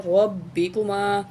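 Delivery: رَبِّكُمَا with a full, heavy ra and doubled ba; رَبِّكُمَا, ra pronounced thick. Shown as a demonstration. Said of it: "روا کو موٹا کر کے پڑھیں گے".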